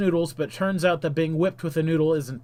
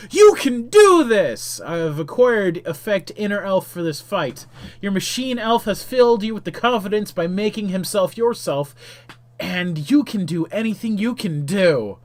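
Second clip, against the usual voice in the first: cheering; 4 semitones higher, 5 dB louder than usual. Acted. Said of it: "Bodea smiles and cheers".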